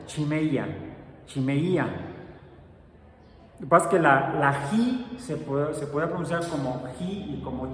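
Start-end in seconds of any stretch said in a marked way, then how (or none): 0.1-1.8 chimeia said with a ch sound, chi-MEI-a; Greek pronunciation. Shown as a demonstration. Teacher showing viewers how the Greek word chimeia sounds, spelled out carefully. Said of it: "Y viene como se pronuncia".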